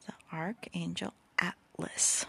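whispered slowly, every syllable clear. Shown as a demonstration. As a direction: spell it out slowly for them. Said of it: "I don't know if I'm enunciating".

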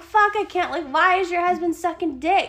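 high, loud, incredulous outburst; mock disbelief. Friend who knows the husband, acting out loud disbelief.

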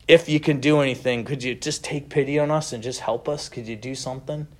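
pleading, fading to a hush; a desperate dad's last plea, dying away; father begs Jesus, desperate and fading. Retold or imitated. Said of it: "I hear in that dad's voice this desperation".

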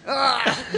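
high yelp of discomfort; pained yelp. Real, not acted. Guest suffering whispers in his headphones, high pained yelp. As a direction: yelp from an unbearable noise.

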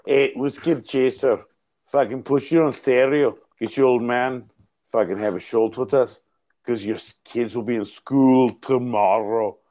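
loosely put-on comic Scottish; rough imitation of a Scottish accent; attempted Scottish accent. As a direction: improvise in mock Scots. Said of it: "I wanna do Scottish".

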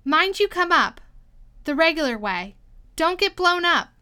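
high, loud, broken-up warnings; a little out of breath. A narrator's reading. Queen advising the King below, a little breathless. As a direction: call short phrases as if slightly winded. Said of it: "still a little out of breath".

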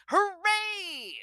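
high mock cheer, dripping sarcasm; sarcastic hooray. Reading to her kid, a sarcastic high cheer. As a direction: cheer it like it's terrible news.

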